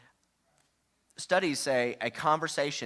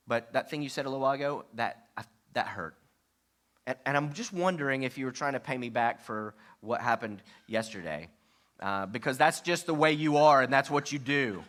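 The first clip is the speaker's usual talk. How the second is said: turns accusing. Shown as a demonstration. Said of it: "No, that went, took a left turn".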